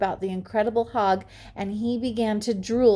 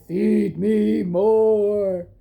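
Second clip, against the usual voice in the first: loud, slow booming monster pig; giant pig shouting; 6 dB louder, much slower than usual. A narrator's reading. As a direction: bellow it like a huge hungry pig. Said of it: "he shouted".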